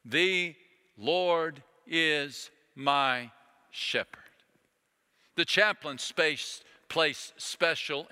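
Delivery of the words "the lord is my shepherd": slow recitation fading to whisper. Shown as a demonstration. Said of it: "I encourage you to do so".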